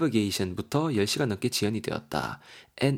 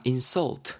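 "insult" stressed on SULT; stress on last syllable; 2 semitones higher than usual. Shown as a demonstration. Teacher shows the verb form, "insult" stressed on SULT. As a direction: hit the end of "insult", in-SULT. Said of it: "이렇게 강세가 뒤에 들어가잖아요".

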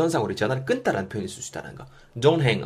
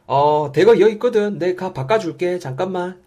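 high, animated phone voice; lively phone role-play; 7 semitones higher, 6 dB louder, slower than usual. Acted. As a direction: act out passing the phone over. Acts out handing over the phone.

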